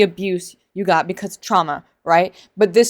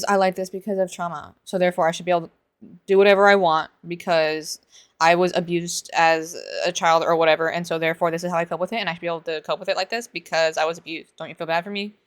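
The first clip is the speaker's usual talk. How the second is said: mocking whine; 3 dB quieter, faster than usual. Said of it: "It's always".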